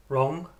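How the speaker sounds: fairly strong beat on "Wrong"; quite strong stress. Shown as a demonstration. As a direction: lean firmly on "Wrong". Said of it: "Quite strong".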